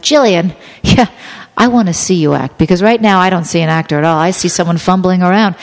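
projected, lightly imitated director's scolding; mock stern director. Director criticizing Jillian's acting, mock stern. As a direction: put on a critical director addressing an actor. Director berating her, acted out.

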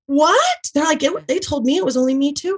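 laughing in high disbelief. Real, not acted. Laughing to her friend about the leggings.

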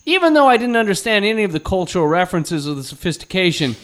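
put-on high, earnest kid reviewer; kid critic voice. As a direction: play a precocious boy critic. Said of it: "And he's like".

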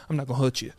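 put-on low, soft British-accented reassurance. Host reassuring anxious woman on stairs, British accent. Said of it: "in a British accent".

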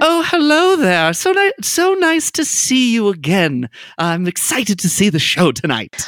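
put-on vague Southern accent, high and drawn out; slow Southern lady mayor's public voice; Laura Louver Cooper, Southern. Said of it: "a vague Southern accent".

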